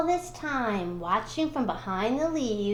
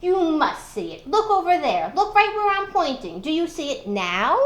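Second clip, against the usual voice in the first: getting angry; 5 semitones higher, 5 dB louder than usual. Acted. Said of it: "And Nancy began to get angry".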